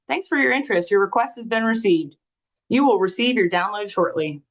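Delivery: lightly robotic recorded message; automated voice. Retold or imitated. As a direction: read it like an automated phone line. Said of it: "say that in your Siri voice".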